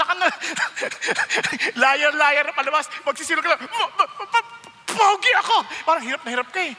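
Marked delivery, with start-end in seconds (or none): 1.9-2.9 laughing. Real, not acted. Preacher laughing mid-line. 3.7-5.5 mock stammering liar.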